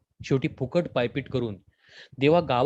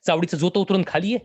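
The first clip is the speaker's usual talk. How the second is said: higher, faster, threatening outburst; louder, raging challenge at the doctor; furious shout; 5 semitones higher, 4 dB louder than usual. Acted. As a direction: roar it out, raising the broken shoe. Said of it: "घेऊन ओरडला".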